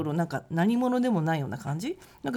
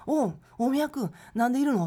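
put-on surprised older man; 5 semitones higher than usual. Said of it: "って言われて".

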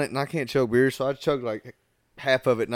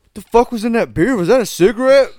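disgusted yell; 8 semitones higher, 7 dB louder than usual. Retold or imitated. Disgusted friend yelling about beer.

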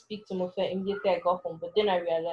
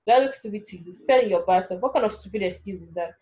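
angry roar; 4 dB louder than usual. Acted. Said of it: "I roared".

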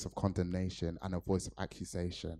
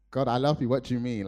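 louder and higher, startled and pleading; shocked protest; 4 semitones higher, 7 dB louder than usual. Retold or imitated. Speaker retelling answering God in disbelief, shocked and raised. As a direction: blurt it out, stunned by the accusation.

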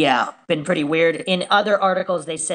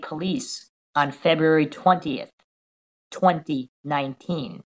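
slow, deliberate read with pauses between phrases; reading a post aloud. Real, not acted. Host reading a Reddit post about new bombshell evidence, measured read-aloud.

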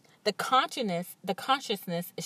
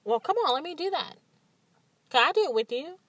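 quicker, higher, eager asking; eager boyfriend; 7 semitones higher, faster than usual. Retold or imitated. Boyfriend asking to join her meditation, eager and quick. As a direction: plead to join in, keen. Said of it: "he's like".

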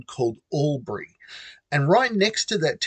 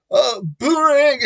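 boomerang said through a real laugh, higher and louder; laughing reply; 8 semitones higher, 5 dB louder than usual. Real, not acted. Answering the girl's call across the catwalk, laughing.

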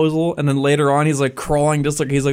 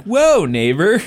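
higher, louder mock alarm; mock neighbor; 6 semitones higher, 4 dB louder, much slower than usual. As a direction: back off from the angry neighbor. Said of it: "And he's like".

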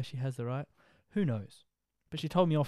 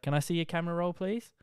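mock Karen demand; 5 semitones higher than usual. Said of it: "real Karen aggressiveness".

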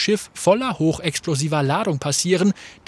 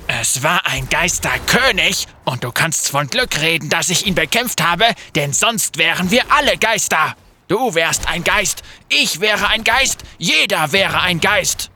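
heated retort. Acted. Graves quarreling back.

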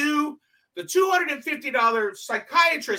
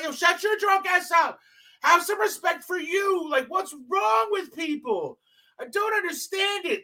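angry shout; 4 semitones higher than usual. Retold or imitated. Retold yelling at drunk.

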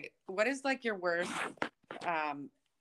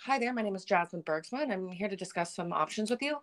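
a polite, lightly polished customer service voice; professional voice; 3 dB quieter than usual. Shown as a demonstration. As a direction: sound like a receptionist on the phone. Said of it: "I have such a professional voice".

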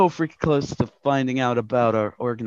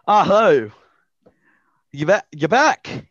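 louder, a bit higher welcome; new Leon voice; 4 semitones higher, 7 dB louder than usual. Acted. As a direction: greet returning customers as Leon. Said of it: "That's not the voice I gave him".

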